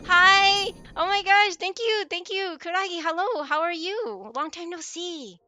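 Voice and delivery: chirpy sweet voice welcoming raiders; cute anime streamer. Real, not acted. Greeting raiders high and loud.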